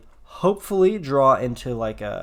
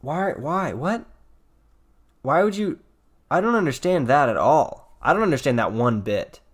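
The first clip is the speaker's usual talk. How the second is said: baffled; 2 semitones higher than usual. Real, not acted. Opponent's baffling attack.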